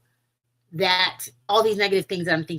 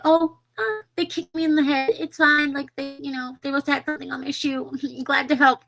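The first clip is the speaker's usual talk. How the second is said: high, chirpy brush-off; sing-song it's-all-fine voice; mock forgiving; 6 semitones higher than usual. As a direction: play the over-gracious excuser, pitched up. Mimics people excusing everyone else.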